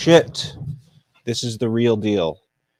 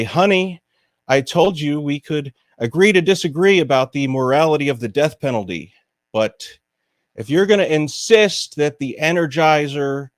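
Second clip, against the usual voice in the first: mock-exasperated spouse, starting raised and winding down; fake phone argument; 3 semitones higher than usual. Pretending to argue with honey on the phone, mock exasperation. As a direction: play a staged domestic argument to be overheard. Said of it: "have absurd fake arguments for people to overhear".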